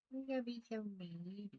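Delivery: sing-song pet scolding; mock-scolding baby talk. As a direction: playfully chide the needy pet. Repeats, faster, higher.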